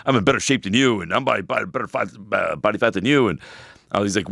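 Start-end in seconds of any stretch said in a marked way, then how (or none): 0.1-3.3 imitating an offended client, pitched up; mock offended. Annoyed client boasting to his trainer, mock offended. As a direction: play the affronted braggart, lightly mocking. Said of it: "He got offended".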